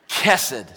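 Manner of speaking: Kesed loud, with a throaty guttural opening sound; guttural Hebrew. Shown as a demonstration. Preacher after joking about phlegm, loud guttural Kesed. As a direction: start Kesed in the throat, stress the first syllable. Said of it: "there's a little guttural Hebrew thing".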